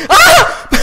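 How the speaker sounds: a sudden high-pitched, loud scream of fright; startled scream. Real, not acted. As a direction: jump out of your skin and yelp "Ah!". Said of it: "me diste un susto que te cagas". (grito de susto repentino, agudo y fuerte)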